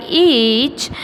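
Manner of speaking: "each" with a long, held ee vowel; long E demonstration. Shown as a demonstration. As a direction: draw out the E in "each". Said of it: "This is vowel E".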